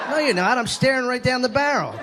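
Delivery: mocking girlfriend. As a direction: scoff at him as the girlfriend. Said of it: "girlfriend's retort".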